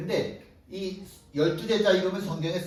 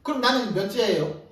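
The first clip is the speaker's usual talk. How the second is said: lightly voiced jealous disciple demanding his rank; half-joking indignant questions; mock protest; 4 semitones higher than usual. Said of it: "다른 제자들이 항의하기 시작하는 거죠".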